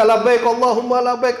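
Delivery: casual modern talbiyah. Retold or imitated. Today's pilgrim about to grab a phone, casual talbiyah. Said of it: "enggak lagi".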